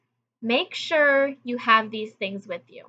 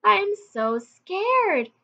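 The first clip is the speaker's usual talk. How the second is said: imitating fear; 10 semitones higher, much slower than usual. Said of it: "And she says".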